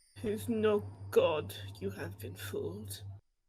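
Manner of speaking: rough, gruff orc voice. Narrating a game, voicing an orc speaking into a player's ear, gruff orc voice. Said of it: "you will hear just the gruff voice of this orc".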